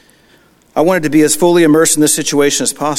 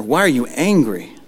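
"Why are you angry?" in a charged, irritated voice; a mock irritated parent's question. Shown as a demonstration. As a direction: snap the question out, annoyed. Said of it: "an irritated or charged up tone".

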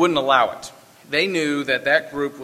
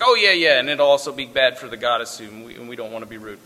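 offhand afterthought; 2 semitones lower than usual. Retold or imitated. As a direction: toss it off as a mock afterthought. Mimics token afterthought about the goddess.

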